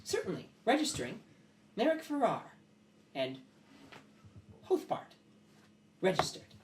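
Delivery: high, halting machine-like creature; Alloy. Acted. Metal creature registering guests, high and halting. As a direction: register each name high, with gaps between. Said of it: "looks at you and goes".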